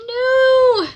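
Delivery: sharp high cry of protest; high shout. Retold or imitated. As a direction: yell it out, high. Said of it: "someone in the background saying".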